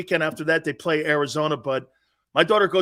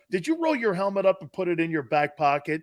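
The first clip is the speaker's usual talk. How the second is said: teasing daughter; 6 dB louder, faster than usual. Retold or imitated. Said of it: "She goes".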